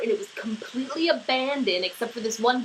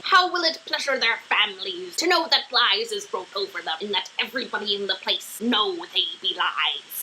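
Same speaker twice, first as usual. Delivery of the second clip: put-on pirate accent. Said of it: "You're making him sound like a pirate".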